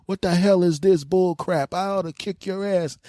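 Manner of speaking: high, loud outraged shout; angry yell. Retold or imitated. Boyfriend confronting the lover, high outraged yell. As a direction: tell him off, voice cracking high.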